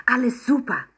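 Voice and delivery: put-on high, bright little girl's answer; a child eagerly reassuring her mother. Emma eagerly assures Mama, in a high girl's voice.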